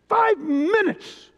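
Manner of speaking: Five minutes drawn out slow and high; emphatic repeat. Real, not acted. Preacher urges the congregation, slow, high emphasis on Five minutes.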